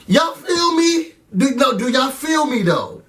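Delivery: high, slow appeal; drawn-out high y'all feel me; pleading. Real, not acted. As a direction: stretch it out, begging agreement. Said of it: "appeal to viewers".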